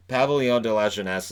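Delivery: French venue name, anglicized accent; English-accented French. Real, not acted. Host attempting a French arena name, English-accented French. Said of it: "as close as I'm gonna get".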